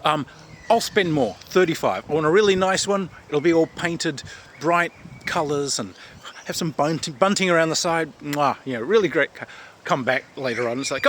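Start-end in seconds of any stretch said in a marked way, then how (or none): 0.0-9.3 enthusiastic shopper. Retold or imitated. Speaker voicing his own character shopping.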